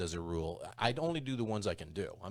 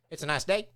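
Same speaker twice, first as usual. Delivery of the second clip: Texas twang, "day" rising sharply; upward sentence ending; 7 semitones higher, 4 dB louder than usual. Shown as a demonstration. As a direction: lift "day" like a question. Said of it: "go up at the end of every sentence".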